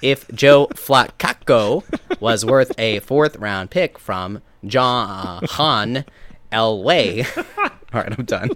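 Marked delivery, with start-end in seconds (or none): 0.0-7.2 slow, drawn-out computer read; robot voice. Pretend. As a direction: read it like a glitchy bot. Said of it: "You do a better robot than I do".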